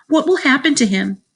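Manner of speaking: high, anxious question; crying with worry. A narrator's reading. Sheila fears for the toddler, high worried cry. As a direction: ask it in a distressed girl's voice. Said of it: "Sheila cried".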